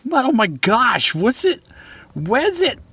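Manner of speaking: high, excited rush of questions. Acted. Lance excited to see Mud again, high and eager. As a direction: burst out with delight at a found friend.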